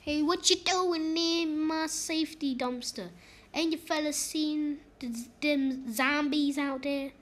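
a lightly voiced gruff old local guarding his dumpster; a hint of a grumpy hillbilly; terrible voice impression. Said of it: "Sorry for the terrible voice impression".

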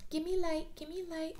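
high, pleading repeated demand; mock needy plea. Needy partner demanding light from the codependent, high plea. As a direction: beg for attention like a needy partner. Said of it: "you crave people like".

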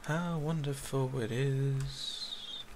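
dry, mock-cheerful sarcasm, the last one slow; sarcastic. Real, not acted. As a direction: pretend to celebrate a disaster, deadpan. After wiping the hard drive.

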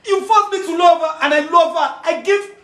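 high, tearful wail; betrayed friend lamenting his lost love, sobbing; crying lament. Acted. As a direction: sob out the heartbreak. Heartbroken lament through tears.

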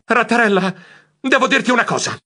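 high-pitched squeak into the phone; nervous squeak. Acted. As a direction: squeak it out, summoning your courage. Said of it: "squittii nel telefono".

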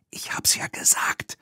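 hushed I-told-you-so whisper. Acted. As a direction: whisper it, hiding in the trailer. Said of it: "flüsterte sie".

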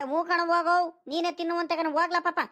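high-pitched, impatient assent; exasperated shooing. Acted. Grandfather sending greedy grandchild for water, exasperated shooing. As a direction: shoo the child along, fed up.

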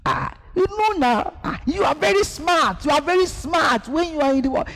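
high-pitched mocking taunt; mocking tempter. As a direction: tease like the devil sneering at faith.

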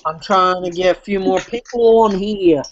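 lightly put-on Pittsburgh accent. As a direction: slip into a hint of Pittsburgh accent. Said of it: "My Pittsburgh accent is coming through".

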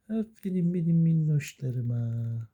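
slow, drawn-out pet-talk praise; cooing praise. Real, not acted. Owner praising the little pets, slow cooing. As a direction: coo it, stretching the words.

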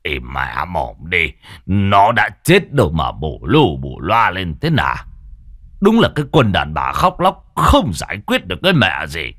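gruff annoyed scolding of his wife; irritated scolding. Acted. Husband scolding his wailing wife, annoyed. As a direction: snap at her to stop the fuss. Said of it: "thì bực mình".

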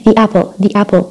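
"the apple" with weak THE as "thee" before the vowel; unstressed THE. Shown as a demonstration. Teacher showing students THE before a vowel, unstressed "thee". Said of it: "ما بأكد على إشي معين".

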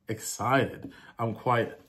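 lightly put-on American accent. Shown as a demonstration. Vlogger catching himself on a British phrase, light American accent. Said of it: "let me do an American accent".

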